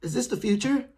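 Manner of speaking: high, wide-eyed wonder; imitating dazzled awe; amazed gasp. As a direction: gush like you just stepped into the future. Imagining waking in a rich future.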